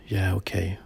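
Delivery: soft, calm whisper; a brother in a dream, calmly agreeing. Retold or imitated. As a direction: settle it quietly, gently giving in. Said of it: "in a calm voice".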